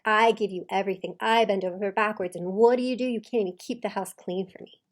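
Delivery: imitated aggrieved guilt trip; playing the victim. Coach voicing husband blaming wife, playing the victim. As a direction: voice a put-upon martyr, emphatically. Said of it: "he's playing the victim now".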